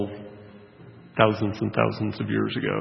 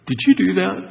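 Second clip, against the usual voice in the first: higher, louder call from upstairs; 9 semitones higher, 7 dB louder, faster than usual. Retold or imitated. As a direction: shout down from an upper floor. Voice from upstairs calling down.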